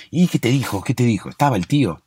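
preguntas impacientes en tono agudo; pregunta ansiosa. Acted. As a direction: pregunta con urgencia, subiendo la voz de tono. Pregunta ansioso tras la llamada. (preguntas ansiosas e insistentes, con tono agudo)

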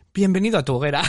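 quoting Sandra while laughing; laughing through the quote. Retold or imitated. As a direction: say it as the giggles break in. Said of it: "Sandra dice". (citando a Sandra entre risas)

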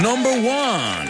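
high drawl of Memphis; a lightly done Memphis drawl; Memphis accent. Shown as a demonstration. Host tries his Memphis accent on the ranking, lightly done. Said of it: "my Memphis accent".

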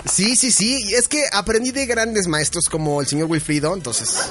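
trying not to laugh. Real, not acted. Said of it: "no te rías".

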